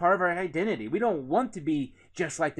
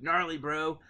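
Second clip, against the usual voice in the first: surfer dude. Shown as a demonstration. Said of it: "Might have a different di-, dialect".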